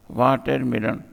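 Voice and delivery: वाटरमेलन in four distinct beats; split into syllables. Shown as a demonstration. Teacher giving a four-syllable example, split into syllables. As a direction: sound out each syllable of वाटरमेलन. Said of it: "four syllable है".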